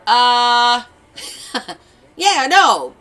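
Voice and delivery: high, loud hesitant mock reply; chef's sheepish answer. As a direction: play the chef caught out.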